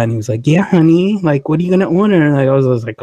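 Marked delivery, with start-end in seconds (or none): 0.5-2.2 higher, sweet mock boyfriend tone; lightly voiced doting partner; couple voice. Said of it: "talking like that".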